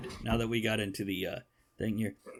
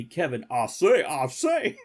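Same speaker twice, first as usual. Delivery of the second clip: mock British; 2 semitones higher, 6 dB louder than usual. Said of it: "unless he's British".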